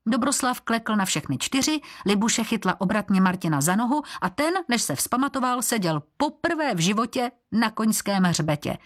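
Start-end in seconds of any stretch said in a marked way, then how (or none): none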